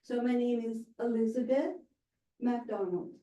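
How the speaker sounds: pause, then McDonald falling; falling on last name. Shown as a demonstration. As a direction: let the last name drop and land. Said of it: "last name with a falling intonation".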